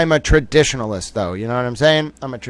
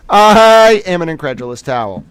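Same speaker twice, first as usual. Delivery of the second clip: repeated through a real laugh, louder; 6 dB louder than usual. Real, not acted. Streamer amused at his own line, laughing. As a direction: crack up while saying it again.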